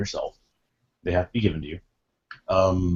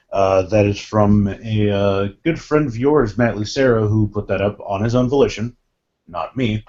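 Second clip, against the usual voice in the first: cigarette in mouth. Real, not acted. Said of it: "although I'm smoking a cigarette right now".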